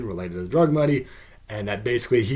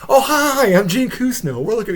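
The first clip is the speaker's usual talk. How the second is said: high, breezy, laughing mock nonchalance; completely nonchalant; 12 semitones higher, 7 dB louder than usual. Gene Kusno greets the reporter's wife, completely nonchalant. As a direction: act like breaking in is no big deal. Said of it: "completely nonchalant".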